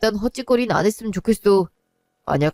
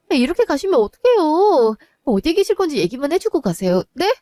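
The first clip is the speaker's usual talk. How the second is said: desperate plea; 7 semitones higher than usual. Acted. Daughter begs her departing father, anguished rising plea. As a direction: beg him not to leave, voice rising.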